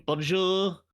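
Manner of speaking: stretched, mock-French hello; French accent. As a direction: put on a playful French accent. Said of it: "say that in a French accent".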